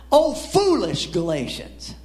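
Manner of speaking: drawn-out, emphatic scripture cry; exclaimed rebuke. Acted. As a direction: read it slowly as an exclamation. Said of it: "You see that exclamation point there?".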